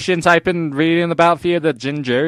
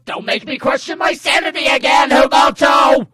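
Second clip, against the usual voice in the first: builds from raised and higher to a full shout on Himoto; mock exasperated scolding; 10 semitones higher, 6 dB louder than usual. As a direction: scold him louder every time you say his name, ending in a yell.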